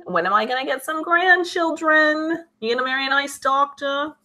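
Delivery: put-on high-pitched, pushy Jewish mother accent; stereotypical Jewish mom. Jewish mom wants grandchildren, hammed-up Jewish accent. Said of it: "the Jewish moms will be like".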